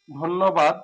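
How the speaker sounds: ধন্যবাদ with an "o" after ধ and a doubled "nn"; dhonnobad. Shown as a demonstration. Teacher modelling ধন্যবাদ for students, clear. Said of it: "নটা দুইবার হবে".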